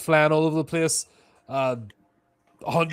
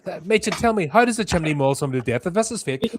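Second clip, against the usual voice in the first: incredulous demand; 6 semitones higher, 4 dB louder, faster than usual. Acted. Character demands explanation of absurd attack.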